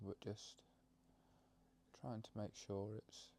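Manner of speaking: calm meditation guide with long pauses; gentle guidance, phrase by phrase; guided meditation. Acted. Leads a breathing meditation.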